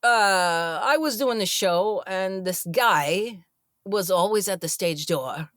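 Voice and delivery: lightly imitated halting storyteller; hint at his halting delivery, with odd pauses; Chris Walken. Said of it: "I do a terrible Chris Walken".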